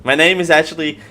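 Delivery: high, slow dramatic Daily; mock grand reveal. Confessing his true name to viewers, hammed-up and slow. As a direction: unveil the fake name with fanfare. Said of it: "that's now the running gag".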